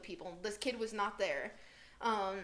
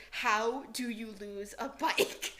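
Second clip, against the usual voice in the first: slow, laughing incredulous question; laughing disbelief; much slower than usual. Retold or imitated. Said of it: "just freaking out in this warehouse".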